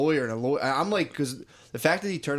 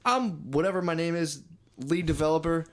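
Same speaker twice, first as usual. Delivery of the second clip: put-on high-pitched drunk developer bit; mock drunk; 4 semitones higher than usual. Drunk lead developer deciding to stop this, mock drunk bluster. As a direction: play a drunk guy making a declaration. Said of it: "he goes, all drunk".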